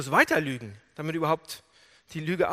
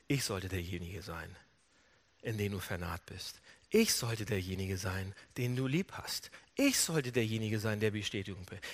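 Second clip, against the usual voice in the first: low, soft, aching confession; hurt restraint; 8 semitones lower, 7 dB quieter than usual. Retold or imitated. Jacob longing for his father's love, quietly hurt. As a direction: hold it down, deep and hushed.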